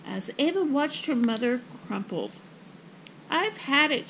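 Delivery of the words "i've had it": higher, mildly fed-up sigh; exasperated sigh. Acted. Mother crumples at door, exasperated sigh. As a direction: give up with voice pitched up. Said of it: "she sighed".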